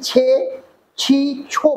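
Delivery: ছে, ছি, ছো set apart slowly, each ending distinct; verb endings stressed. Shown as a demonstration. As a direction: sound out ছে, ছি, ছো one by one. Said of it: "ক্রিয়ার শেষ উচ্চারণে".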